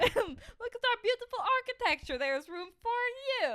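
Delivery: a high, rising mock French accent; sing-song the tour in fake French; TikTok French parody. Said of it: "I wish that video was still on".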